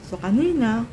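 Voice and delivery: talking while chewing; mouth full. Real, not acted. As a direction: speak through a mouthful of bread. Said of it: "My mouth is full". (puno ang bibig)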